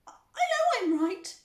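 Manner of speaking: high, loud retort; indignant shriek. A narrator's reading. Mother answering her husband, indignant shriek. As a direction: retort at high pitch and volume.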